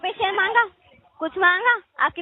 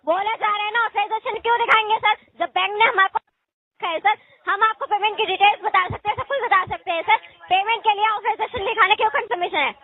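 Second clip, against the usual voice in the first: raised, higher agitated voice; real annoyance at a rude caller; getting upset; 6 semitones higher than usual. Real, not acted. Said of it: "आप तो नाराज हो गई, चिल्लाने लगी".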